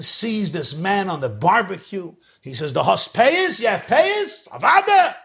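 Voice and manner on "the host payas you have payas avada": eager questions. Acted. Rebbe questions man in fire.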